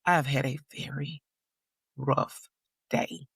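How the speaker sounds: calm warning through clenched patience. Retold or imitated. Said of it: "I said it very calmly".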